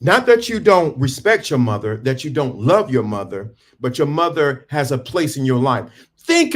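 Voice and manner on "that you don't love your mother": normal talking voice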